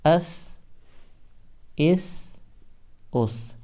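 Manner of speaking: اس with a soft, thin ث. Shown as a demonstration. Teacher drilling students: soft thin اس. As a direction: keep the ث in اس light and fine. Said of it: "نرم اور باریک ہی پڑھنا ہے".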